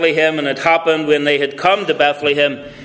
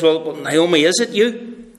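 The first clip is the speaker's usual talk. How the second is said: surprised neighbour; 2 semitones higher than usual. Acted. Woman peers close at Naomi.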